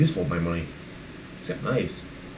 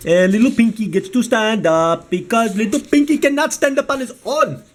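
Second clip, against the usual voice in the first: a lightly put-on cartoon voice, a bit higher; silly puppet accent; 6 semitones higher than usual. Showing viewers the toy stand in a light silly accent. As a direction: voice the toy Pinky in a goofy accent. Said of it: "I am not being offensive with that accent".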